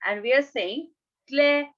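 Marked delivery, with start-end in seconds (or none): 1.3-1.7 "cleverer" broken as cle, ve, rer; three separate syllables. Shown as a demonstration. Teacher counting syllables, "cleverer" split in three. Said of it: "three syllables now".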